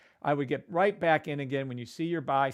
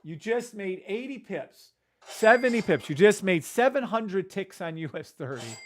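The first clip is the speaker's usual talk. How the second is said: excited boast; 4 semitones higher, 4 dB louder than usual. Real, not acted. Boasting the pips made.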